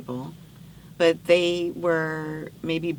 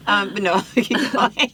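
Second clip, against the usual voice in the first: laughing; 6 dB louder than usual. Real, not acted. Laughing, urging her on.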